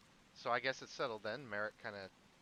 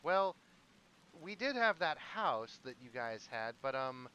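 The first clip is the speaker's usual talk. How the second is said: lightly voiced character, pitched higher at first; Merrick piping up; 3 semitones higher than usual. Game master as Merrick suggesting the empty manor, piping up. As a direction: speak up in a raised, emphatic voice, easing off. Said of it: "Merrick kinda pipes up and he says".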